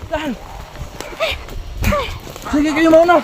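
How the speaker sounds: while running. Real, not acted. Running downhill, calling others.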